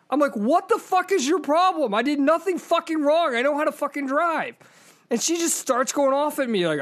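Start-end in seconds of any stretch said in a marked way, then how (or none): 0.4-4.6 higher-pitched mock yell at the woman; retold angry yell. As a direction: re-enact yelling from the car, half-hammed. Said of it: "I start yelling at her".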